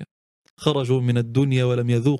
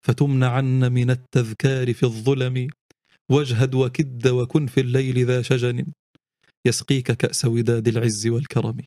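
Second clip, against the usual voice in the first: poem recitation. Acted. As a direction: recite the lines like a night poem.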